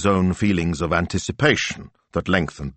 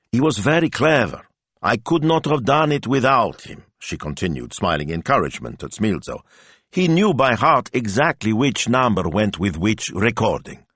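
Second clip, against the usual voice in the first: encouraging Betta; 5 semitones higher than usual. Acted. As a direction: build him up encouragingly. Betta praising Smilzo.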